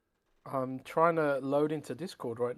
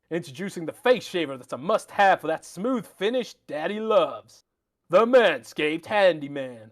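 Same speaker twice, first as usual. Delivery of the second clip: put-on American accent; 4 dB louder than usual. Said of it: "let's use your American accent here".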